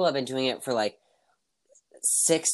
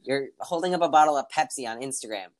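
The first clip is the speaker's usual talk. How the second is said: mocking; 5 semitones higher than usual. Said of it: "I'm like".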